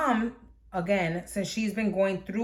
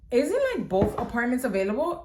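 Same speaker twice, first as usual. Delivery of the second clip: grandma voice; 4 semitones higher than usual. Retold or imitated. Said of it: "grandma goes".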